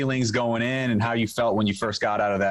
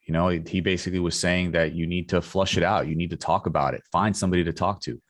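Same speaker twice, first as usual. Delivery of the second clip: measured, lower podcast ad voice; sponsor ad read; 5 semitones lower than usual. Acted. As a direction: read the sponsor copy evenly and clearly. Podcast host reads sponsor ad.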